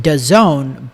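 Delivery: "dazone" said as a word, not letters; pronounced as one word. Shown as a demonstration. Podcast host showing listeners the name, "dazone" as one word. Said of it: "we pronounce it dazone".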